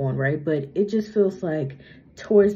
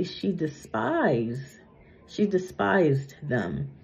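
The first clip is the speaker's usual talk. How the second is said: slow, slightly slurred around a retainer; talking with retainer; much slower than usual. Real, not acted. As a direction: speak slowly around a retainer. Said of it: "talking funny 'cause of my bottom retainer".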